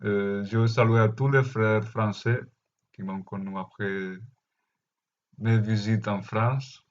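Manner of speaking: Spanish-accented French, rolled r; foreign accent in french. Real, not acted. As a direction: Catalan speaker's French accent. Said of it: "mon français, c'est pas très bon".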